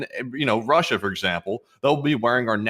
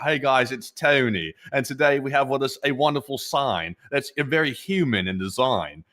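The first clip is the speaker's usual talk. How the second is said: lightly imitated Southern-accent sales pitch; Tony; 3 semitones higher than usual. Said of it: "like, the Southern accent".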